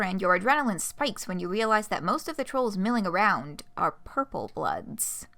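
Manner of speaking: lively, animated story narration; expressive read-aloud with swooping intonation; game master scene setting. Acted. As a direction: set the scene for the player, leaning on key words.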